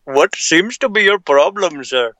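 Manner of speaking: a condescending client reading an email. Pretend. Friend mocks the voice he reads client emails in. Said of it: "that's the voice I read most of the emails".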